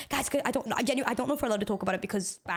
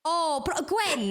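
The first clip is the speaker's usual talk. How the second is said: put-on Welsh accent; 4 semitones higher, much slower than usual. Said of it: "you do the Welsh accent".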